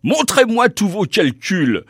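high-pitched, mildly scolding order; scolding demand. A narrator's reading. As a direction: order it like an irritated superior, without shouting. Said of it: "gronda l'académicien". (ordre grondeur, légèrement joué)

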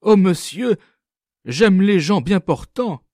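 quick, high and loud retort; brisk, bright interjection; lively. A narrator's reading. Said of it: "Elle dit vivement".

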